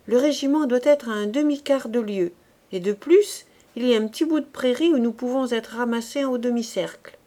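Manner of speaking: put-on a loud, blunt old soldier hurrying his men; gruff corporal. Corporal rallying the young recruit, loud and blunt. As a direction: bark it out like a veteran corporal. Corporal Aubry praising, urging retreat.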